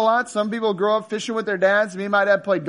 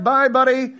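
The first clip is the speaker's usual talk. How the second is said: teasing fish; 5 semitones higher, 5 dB louder than usual. Acted.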